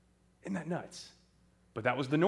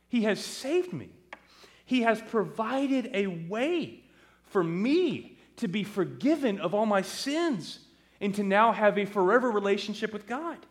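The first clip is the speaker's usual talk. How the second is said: raised pitch, emphatic testimony; impassioned plea; 7 semitones higher than usual. Acted. Son pleads with Mom and Dad to understand, impassioned. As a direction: insist on it higher, leaning on key words.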